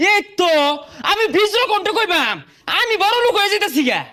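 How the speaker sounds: high-pitched, elated crowing; gleeful boasting. Acted. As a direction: crow it high with delight. Gleeful boast of getting rich.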